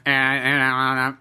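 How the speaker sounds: lightly imitated voice-box grunts; mock the talk of a smoker with a throat hole; a hint of cartoon electrolarynx; Ned. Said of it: "like fucking Ned in South Park".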